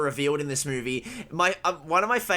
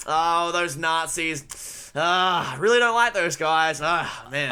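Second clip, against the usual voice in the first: casual mock grumble with drawn-out start; under-delivered; slower than usual. Imitating Indy's line for co-host, casually under-delivered. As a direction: play mild annoyance, no real outrage. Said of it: "under-delivered it is".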